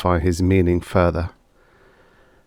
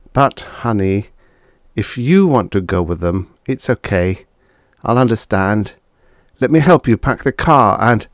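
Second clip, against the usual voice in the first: softened; 3 semitones higher than usual. Acted. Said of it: "his manner softened".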